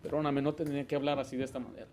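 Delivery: soft, quick apology to a daughter; quietly asking forgiveness; remorseful apology. Retold or imitated. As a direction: retell a father's hushed apology. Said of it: "le tuve que decir que me perdonara".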